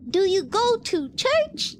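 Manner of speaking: put-on slow, imperfect African accent. Attempting African creators' way of speaking, African accent. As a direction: try an African accent, unhurried. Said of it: "when they speak, they're like".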